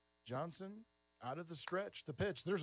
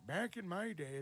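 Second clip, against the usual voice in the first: put-on old man voice; 3 semitones higher than usual. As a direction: play it like a grumpy old-timer. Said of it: "there comes the old man voice".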